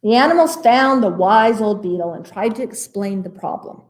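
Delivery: put-on picture-book reading for children; animated storytime narrator; story narration. A narrator's reading. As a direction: read it to little listeners, lifting the surprises.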